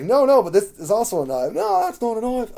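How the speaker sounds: loud, high mock Australian accent; Crocodile Dundee. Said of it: "play Crocodile Dundee with my Australian accent".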